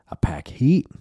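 whispered boast; mock whisper. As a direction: hiss the threat under your breath.

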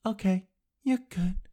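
high mocking official voice; put-on bureaucrat voice; mock government official. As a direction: give a silly high-pitched all-clear. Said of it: "then the government is like".

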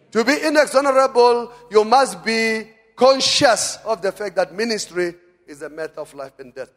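loud, high-pitched sermon delivery; rousing pulpit exhortation; forceful preaching. Real, not acted. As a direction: preach it with full conviction.

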